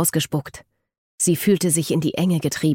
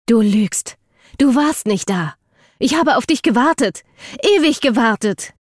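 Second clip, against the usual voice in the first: raised, high-pitched indignation; angry accusation; 6 semitones higher, 4 dB louder than usual. A narrator's reading. Eden contradicts Jackson about waiting for him, angrily accusing. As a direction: hurl the accusation at him, loud and hurt.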